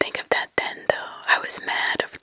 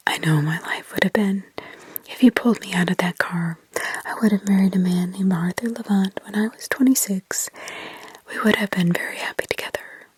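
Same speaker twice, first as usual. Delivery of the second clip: put-on demonic child; 3 semitones lower, 4 dB louder than usual. Possessed girl accusing Mark, lower demonic whisper. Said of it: "it was demonic in others".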